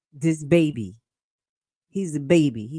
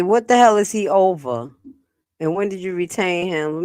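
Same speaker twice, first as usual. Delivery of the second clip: mock voicing the trustees; 5 dB louder than usual. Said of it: "They're trying to say".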